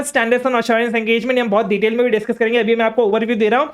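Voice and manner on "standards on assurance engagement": slow dictation. Shown as a demonstration. Dictating term for notes.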